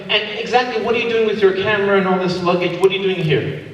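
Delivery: stern airport officer voice; suspicious officer. Acted. Comic acted airport officer scene.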